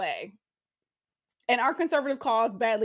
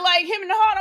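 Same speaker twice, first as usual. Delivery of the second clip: ordinary delivery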